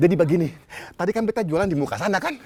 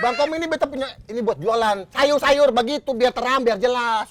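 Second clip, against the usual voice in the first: raised voice. Acted. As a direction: plead your case with a slightly raised voice. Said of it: "lo nggak usah teriak-teriak". (agak berteriak membela diri)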